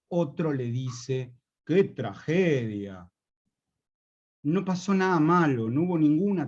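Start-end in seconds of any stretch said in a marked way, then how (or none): 1.6-3.1 slow, drawn-out "¡Qué tragedia!" as praise; admiring compliment. Acted. One man praises another's suit, slow admiring compliment. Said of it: "a modo de elogio".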